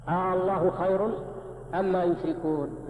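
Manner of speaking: آه، الله خير opened with a stretched "aa"; long questioning hamza. Shown as a demonstration. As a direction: recite الله with a lengthened first vowel, as a question. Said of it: "هذا استفهام".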